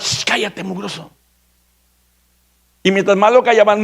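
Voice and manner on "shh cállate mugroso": soft, dismissive shush; hushing scold. Retold or imitated. The crowd silencing the blind beggar, soft contemptuous shush. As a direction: hush him with contempt.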